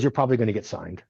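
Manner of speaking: quick, unruffled aside; imitating a calm, unbothered trainer; retold calm. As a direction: say it matter-of-factly, no fuss at all. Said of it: "you know how calm Doctor Tom is".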